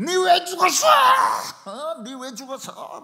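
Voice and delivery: very high shouted outburst, easing in volume on the repeat; yelling. Retold or imitated. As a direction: reenact yelling at the dead, high-pitched. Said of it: "막 소리 지르면서".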